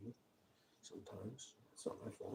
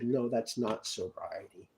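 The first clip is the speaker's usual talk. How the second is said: slow solemn God voice; slower than usual. Retold or imitated. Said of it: "I answer myself in the words of God".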